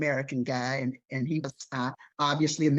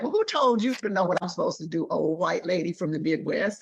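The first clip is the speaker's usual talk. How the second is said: sassy retort; 2 semitones higher than usual. Retold or imitated. Snapping back at the bossy secretary, indignant. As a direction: fire back at her with attitude.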